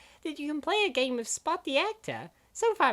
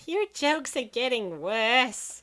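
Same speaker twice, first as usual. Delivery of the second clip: weary put-down; 3 semitones lower, much slower than usual. Acted.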